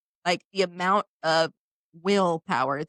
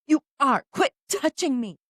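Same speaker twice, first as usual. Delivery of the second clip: mock bratty toddler; 6 semitones higher, 3 dB louder than usual. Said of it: "yelling at each other like a couple of thirteen-year-old sisters".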